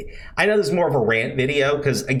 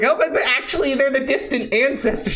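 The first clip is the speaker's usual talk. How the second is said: higher, smug mock voice; mocking pedant; 9 semitones higher, faster than usual. Mocking the defenders' excuse, high smug whine. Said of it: "And it's like".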